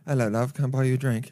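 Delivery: casual working-class British pickup line; poor British accent. Acted. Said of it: "poor British ac".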